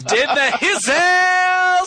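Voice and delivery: high laughing squeal; laughing shriek. Real, not acted. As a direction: burst out laughing mid-word. Laughing outburst.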